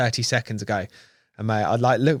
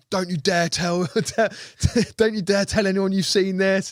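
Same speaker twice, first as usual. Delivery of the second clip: higher, half-laughing mock warning; mock secretive warning; 7 semitones higher than usual. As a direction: tease passers-by to keep it secret. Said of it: "people are walking past going".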